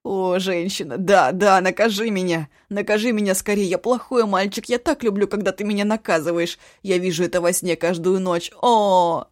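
hammed-up loud wailing plea; mock howl. Eshu clowns on his knees begging the cook. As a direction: ham it up on your knees. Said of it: "взвыл".

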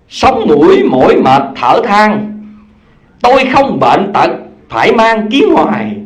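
slow, drawn-out verse recitation; poem recitation. Acted. Preacher recites the children's poem to the congregation, slow and measured. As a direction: recite the old reading-lesson verse.

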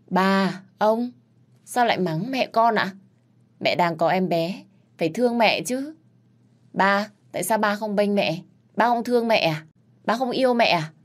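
a small daughter begging the grown-ups to stop; little girl pleading. Acted. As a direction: granddaughter defending her mother from grandparents. Child voice pleading for mother.

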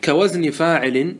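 "كوزن فاعل" intoned slowly as a line of poetry; verse recitation. Shown as a demonstration. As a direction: draw out "كوزن فاعل" in a slow chant. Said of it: "يقول الناظم رحمه الله".

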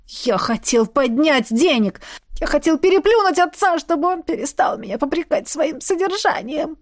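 bursting out, then running down; outburst then fading. A narrator's reading. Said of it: "Под конец голос Этьена стал тише". (выкрик, затихающий к концу)

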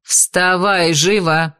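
резко и требовательно; оборвать сон приказом; резкий приказ. Acted. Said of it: "Тон Шидар никак не вязался с образом". (ведьма резко будит беса)

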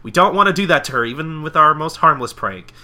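high, loud, tumbling refusal; Pinkie Pie urgent protest. Retold or imitated. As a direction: plead urgently in a cartoon pony voice. Pinkie urgently vetoes pranking Fluttershy.

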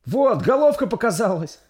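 high, loud happy cry; joyful exclaim. Acted. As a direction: announce the baby's head with joy. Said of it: "радостно воскликнула молодая повитуха".

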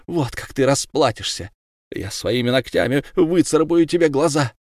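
mother swearing vengeance on the killer; vengeful threats. Acted. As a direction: threaten him with her nails. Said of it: "говорила".

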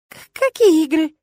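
high stammered squeak. Acted. Flustered witch facing the rector up close, high stammered squeak. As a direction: squeak it out, caught off guard. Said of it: "пискнула я".

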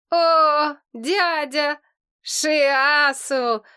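loud, glad call across the room; a bright shout of greeting; joyful calling out. Acted. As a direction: hail them happily from the bed. Patient calls out to relatives.

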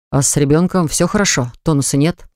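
ordinary delivery

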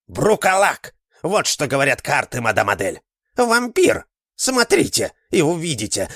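high, loud, feverish prophecy; old man proclaiming. A narrator's reading. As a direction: fortune teller ranting to Adele. Martin proclaims vampire. (старик-гадальщик возбуждённо пророчит)

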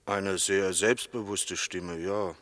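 slow, soft witness answer; zu leise. Acted. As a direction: answer slowly and too softly. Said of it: "Sprechen Sie bitte etwas lauter". (langsam und zu leise gesprochen)

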